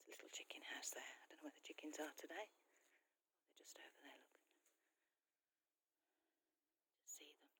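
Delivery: soft, hushed aside; whispering a bit. Real, not acted. Showing viewers the chicken house, whispering a bit. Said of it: "I've been whispering a bit".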